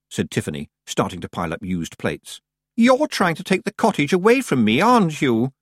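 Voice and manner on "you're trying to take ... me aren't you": high-pitched, upset accusation; nearly crying. A narrator's reading. Anagramma accusing Tiffany over the cottage, nearly crying. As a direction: accuse her, close to tears. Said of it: "Anagramma was nearly crying".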